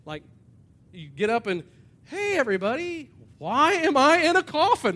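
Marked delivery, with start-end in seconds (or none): 2.0-4.9 loud, high, comic bewilderment; hammed-up, high-pitched shouted question; bewildered revived man. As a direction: call out to the crowd, baffled. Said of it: "what's the first thing that you say".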